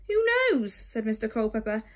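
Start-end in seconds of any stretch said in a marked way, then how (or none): 0.1-0.7 airy. Acted. Bird dismissive.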